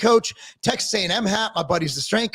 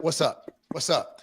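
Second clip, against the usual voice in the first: 2 low white guy hello; 4 semitones lower, 6 dB quieter than usual. Shown as a demonstration. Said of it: "Or you do that".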